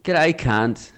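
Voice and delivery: cheeky greeting among close mates; matey banter. Acted. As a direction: rib your best mate affectionately. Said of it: "if you're with your really good friends".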